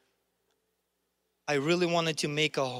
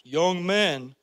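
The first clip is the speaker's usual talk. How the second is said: lightly mocking the contemptuous pastor; stern pastor impression; 3 semitones higher, 4 dB louder than usual. Preacher voicing the scornful pastor to the congregation, lightly mimicked. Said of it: "I'm not gonna do the impressions".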